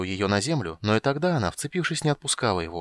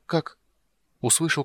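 ordinary delivery, nothing marked

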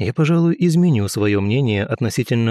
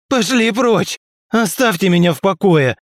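yelling; 9 semitones higher, 4 dB louder than usual. Acted. Suicidal man yells at Boris.

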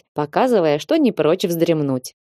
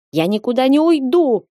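put-on higher, stormy drunken refusal; raging protest; 6 semitones higher than usual. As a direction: rage against being sent away. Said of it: "бушевал Тони".

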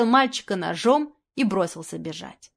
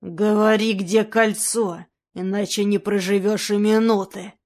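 demanding threat; 3 dB louder than usual. Acted. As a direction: demand it with the knife at his throat. Knife to boy's neck.

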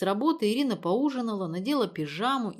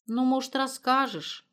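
hurt; 7 semitones higher, 3 dB louder than usual. A narrator's reading. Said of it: "с обидой спросила мать".

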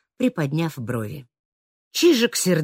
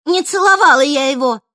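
higher, louder indignant cry; exclaimed; 10 semitones higher, 10 dB louder than usual. A narrator's reading. Чижик возражает Нерому при всех, indignant exclamation. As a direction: protest out loud. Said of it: "воскликнула она".

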